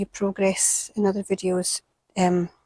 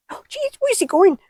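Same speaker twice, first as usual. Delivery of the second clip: high, loud alarmed cry; real panic watching the toad move; panicked yelp; 12 semitones higher, 7 dB louder than usual. Real, not acted. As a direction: squeal it as the toad moves toward you. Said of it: "Sorry for screaming".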